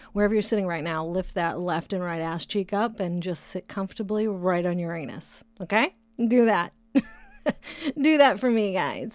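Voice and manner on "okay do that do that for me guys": loud, high, laughing commands; bossy instructor. Pretend. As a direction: boss them around, laughing. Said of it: "bossy mock fitness instructions".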